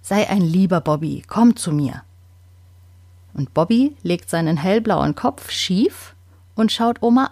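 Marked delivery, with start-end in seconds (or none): 0.0-2.0 gentle coaxing. Acted. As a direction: coax the bird gently onto your hand. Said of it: "Sie spricht ganz sanft".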